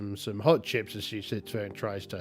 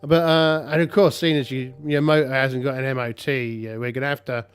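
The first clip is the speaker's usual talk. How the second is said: higher, louder, brisk police officer; 4 semitones higher, 4 dB louder, faster than usual. Acted. Police officer telling the driver her car is expired, cheery and brisk. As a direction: rattle off the bad news like a cheery copper.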